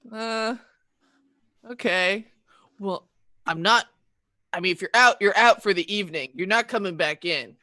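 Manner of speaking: lightly voiced let-down dad; a hint of a disappointed father; disappointed parent. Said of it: "disappointed dad tone towards them".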